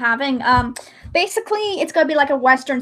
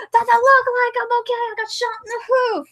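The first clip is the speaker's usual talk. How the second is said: much higher and exasperated; indignant wounded pony; 9 semitones higher than usual. Acted. Wounded pony snapping at the friend, in a much higher, exasperated voice. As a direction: snap back as the wounded cowboy. Angry reply in acted skit.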